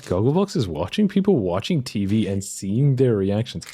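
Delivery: baffled, emphatic re-reading; incredulous. Real, not acted. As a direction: repeat it in disbelief, stressing words. Baffled repeat after swearing.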